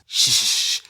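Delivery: calm him with a hush. Acted. Hushing the captive.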